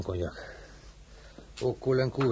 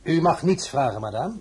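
raised, imperious rebuke; stern rebuke; 3 dB louder than usual. Acted. Emperor forbids madame to ask questions, stern and cutting. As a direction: forbid it with sharp authority.

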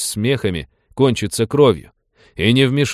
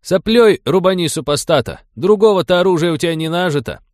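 louder, fast mocking yell; jeering shout; 8 semitones higher, 4 dB louder than usual. A narrator's reading. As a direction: heckle him from the crowd. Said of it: "крикнул кто-то".

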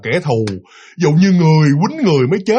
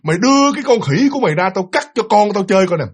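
lightly acted ghostly demand; projected, menacing ghost line, mildly played; ringing ghost voice; 4 semitones higher than usual. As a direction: imitate a ghost woman calling out. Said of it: "nói cái giọng mà vang".

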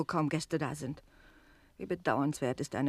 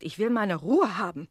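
raised, annoyed rebuke; irritated; 5 semitones higher, 7 dB louder than usual. Acted. Landlady scolding the servant, loud. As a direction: snap back at the servant.

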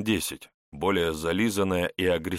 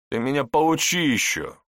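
louder, higher contemptuous put-down; 8 semitones higher, 5 dB louder than usual. A narrator's reading. Investigator puts the cheeky suspect in his place, contemptuous. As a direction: put him down with raised, scornful voice. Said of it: "презрительно прищурился Аникин".

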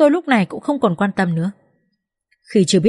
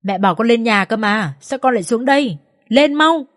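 tearful urging; 3 semitones higher than usual. Acted. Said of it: "Tôi nhìn con bật khóc và nói".

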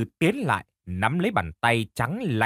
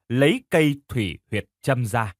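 ordinary delivery, nothing marked

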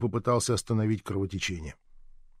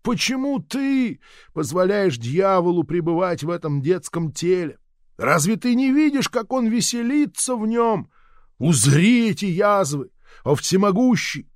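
pleading prayer; 6 semitones higher than usual. A narrator's reading. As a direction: drag out each complaint to heaven. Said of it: "снова взмолилась старуха".

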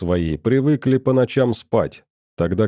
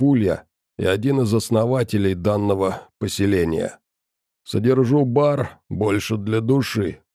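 rasping, unhurried creature voice; a hulking barkeep, calm but menacing; gruff monster bartender. Acted. Bartender Molot's long speech. (хриплый голос чудовища-бармена)

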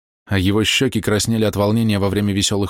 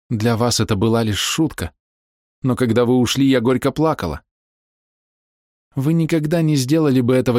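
a hint of a higher, aching middle-aged woman; lightly voiced Bella confessing; 5 semitones higher than usual. A narrator's reading. Bella confessing her love to the young man, aching. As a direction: pour out old hidden love, tenderly hurt.

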